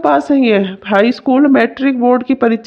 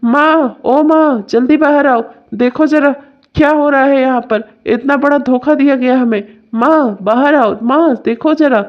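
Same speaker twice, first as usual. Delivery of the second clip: calling out. Acted. Son calling his mother out to see the deception, indignant. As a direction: summon someone from another room in outrage.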